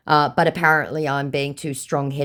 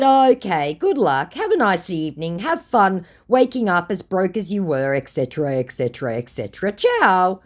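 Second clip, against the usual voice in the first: dismissive sign-off; 5 semitones higher, 4 dB louder than usual. Retold or imitated. Her brush-off, acted.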